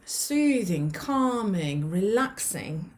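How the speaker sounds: drawn-out, easing into slowness; soothing. Shown as a demonstration. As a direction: let each word stretch and settle. Demonstrates the calming parasympathetic state.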